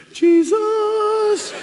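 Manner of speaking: very high, loud amazed shout; hammed-up stunned outburst; amazed exclamation. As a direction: blurt it out in pure disbelief. Offered big money, amazed.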